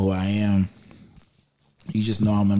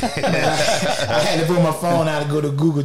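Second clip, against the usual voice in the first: talking through laughter; laughing; 7 semitones higher, 4 dB louder than usual. Real, not acted. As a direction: laugh while you tell it. Laughing while telling story.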